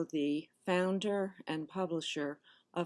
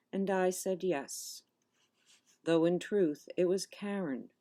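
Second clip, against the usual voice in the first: measured poem reading with deliberate pauses; poetry reading. Acted. Poet reading her childhood confession to an audience, measured recital. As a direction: read it line by line, letting each phrase settle.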